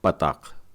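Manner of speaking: पताख, pa-TAKH with a throaty kh; slow teacher demo of पताख with falling tune; पताख pronounced carefully, falling at the end; say Patach. Shown as a demonstration. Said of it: "इस मात्रा का इब्रानी नाम है".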